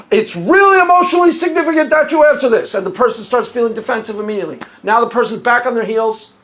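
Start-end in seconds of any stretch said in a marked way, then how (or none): 0.1-2.7 imitating a pressing, higher emotional appeal; emotionally charged. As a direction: lean on them with mock gravity. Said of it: "ask a highly charged".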